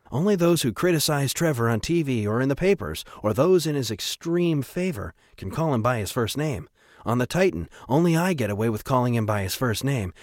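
lightly voiced, lilting priest; knowing priest. O'Shea explains Trevor to Atticus, lightly voiced priest. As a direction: explain it with a priest's self-assurance.

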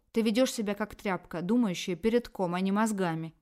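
loud scolding yell; angry shout. Acted. Feminist voice scolding Tanya, loud angry shout. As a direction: berate her at full volume. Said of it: "кричала феминистка".

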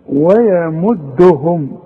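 ويمدهم drawn out slowly, light waw and ya; tajweed demo of ويمدهم; light recitation. Shown as a demonstration. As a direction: stretch ويمدهم slowly, letters thin. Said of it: "اوعى تفتح لي الميم".

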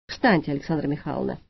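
low, soft peaceable rumble. Acted. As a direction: calmly coax her up, low and soft. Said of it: "миролюбиво прогудел один". (миролюбиво, низко и тихо)

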